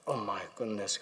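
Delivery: low, hushed retold dismay; softly imitated stunned colleague. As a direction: murmur it in shock. Acts anaesthetist stunned by patient's words.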